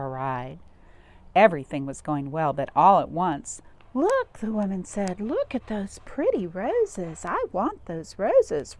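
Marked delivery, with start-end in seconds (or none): 3.9-4.4 high, loud excited "Look"; excited call. Acted. Woman spots roses, excited. 5.2-8.8 demanding lady. Acted. Demanding woman passenger.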